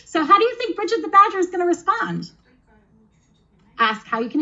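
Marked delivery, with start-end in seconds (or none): 0.1-2.3 laughing. Real, not acted. Laughing after hedgehog voice.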